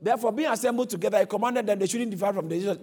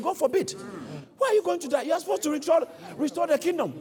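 higher-pitched indignant protest, acted out; retold rebuke; 6 semitones higher, faster than usual. Preacher voices Peter objecting to Jesus dying, mock indignant rebuke. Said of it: "took him and rebuked him".

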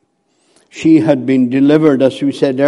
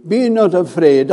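higher and fuller, declared boldly; ringing proclamation; 3 semitones higher than usual. Acted. Preacher declaring God's promise to the congregation, raised and ringing.

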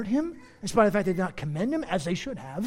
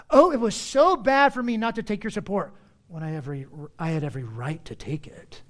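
sarcastic. Retold or imitated. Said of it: "He's being sarcastic".

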